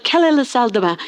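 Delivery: a playful burst of French-sounding nonsense; mock French babble. Babel worker answering the brick request in French, playful mock accent. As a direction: toss off fake French like a sudden new tongue. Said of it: "I'd speak in these different languages".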